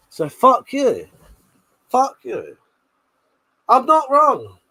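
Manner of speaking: building to a loud "I'm not wrong"; rising gloat. Real, not acted. Gloating at chat, getting louder.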